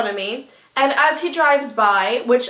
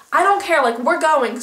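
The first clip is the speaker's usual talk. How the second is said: urgent outburst; 3 semitones higher, 4 dB louder than usual. Retold or imitated. Panicked decision to leave.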